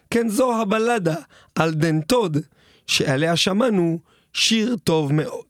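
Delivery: storyteller reciting a comic ballad; deadpan ballad narration in verse; rhymed ballad recital. Acted. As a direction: tell it in measured rhymed phrases. Recites a rhymed ballad over music.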